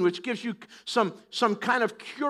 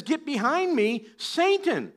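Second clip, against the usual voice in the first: higher-pitched rebuke, peaking on the last word; acted rebuke; 6 semitones higher, slower than usual. Preacher as the Lord answering Peter, acted rebuke. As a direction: send the tempter away, pitch jumping up.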